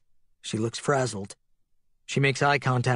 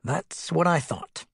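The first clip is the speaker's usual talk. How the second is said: rueful; 5 semitones higher, slower than usual. A narrator's reading. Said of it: "The doctor smiles ruefully".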